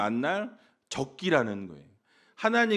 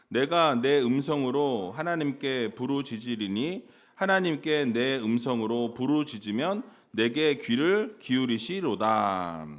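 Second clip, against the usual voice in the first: slow, measured congregational Bible reading; scripture reading; 4 semitones lower, slower than usual. Acted. Preacher leading the congregation in a psalm, slow solemn reading. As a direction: read it out slowly, stretching the final words.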